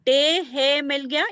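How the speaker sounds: slow, careful letter-by-letter demo; slow sounding out. Shown as a demonstration. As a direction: sound out each letter, slowly. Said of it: "ये वाला टे और हे मिल गया तो ठो".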